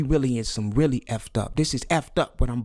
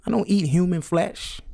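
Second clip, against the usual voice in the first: higher-pitched imitated objection; protesting listener; 7 semitones higher than usual. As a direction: mimic an audience member insisting on their innocence. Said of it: "I know a lot of you say".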